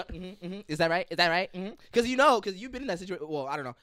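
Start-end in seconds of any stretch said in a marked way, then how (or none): 0.0-1.7 sassy mock. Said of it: "she go".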